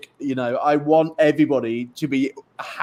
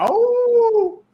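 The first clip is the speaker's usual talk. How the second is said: mock waking cry. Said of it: "wake up in the morning and go".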